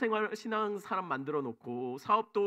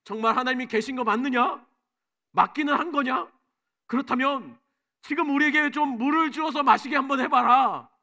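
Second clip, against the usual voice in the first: higher, louder accusing challenge, building to the end; angry demand; 6 semitones higher, 7 dB louder than usual. Retold or imitated. The Israelites confront Moses over missing water, loud angry challenge. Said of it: "이렇게 따져 묻어- 물어요".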